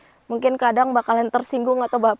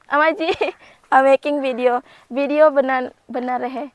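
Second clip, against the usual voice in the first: louder, giggling as she explains the filming; laughing call to mother-in-law; 2 semitones higher, 5 dB louder than usual. Real, not acted. Laughingly telling mother-in-law she's filming for YouTube. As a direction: laugh it out while calling over her shoulder.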